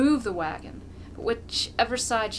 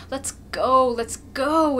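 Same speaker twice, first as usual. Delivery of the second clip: urging father; 4 semitones higher, 7 dB louder, slower than usual. A narrator's reading. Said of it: "his father says to him".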